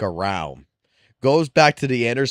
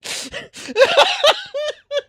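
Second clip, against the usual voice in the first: high cackling laugh. Real, not acted. Telling wife story, breaks into high wild cackling. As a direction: burst into a long high cackle. Cracking up retelling prank.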